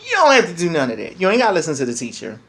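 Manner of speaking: a hint of a careless, indulgent voice rising in pitch and volume, speeding up at the end; mock enabling voice. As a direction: mimic the people who tell kids school doesn't matter, lightly. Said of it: "allow them to believe".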